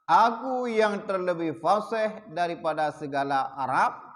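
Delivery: slow, measured recitation of a kitab passage; formal text reading. Acted. Teacher reading the hadith text to his class, slow and measured. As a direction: read each word out deliberately.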